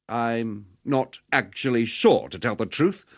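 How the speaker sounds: slow, uncertain admission; hesitant admission. Acted. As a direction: drag it out, unsure of yourself. Admits he does not know outcome.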